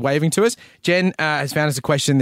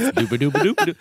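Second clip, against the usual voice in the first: slap bass riff done by mouth; imitated slap bass. Host plays the bunny doctor's cure, mouthed slap bass. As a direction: mimic a bouncy bass line. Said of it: "Slap bass".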